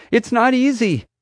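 high-pitched strained protest; frantic high complaint; panicked yell. A narrator's reading. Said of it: "she yelled, panic starting to kick in now".

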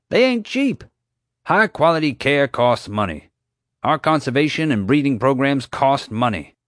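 park owner ranting about money; rising rant. Acted. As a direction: lecture them, getting worked up.

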